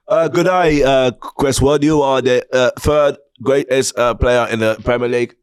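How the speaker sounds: put-on New Zealand accent. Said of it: "can you do me a quick New Zealand accent saying".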